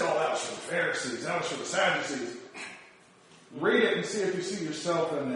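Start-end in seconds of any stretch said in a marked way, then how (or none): 0.0-2.4 low, soft dismissive brush-off; dismissive mocking voice. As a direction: wave it away offhandedly. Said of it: "But we look at it and say".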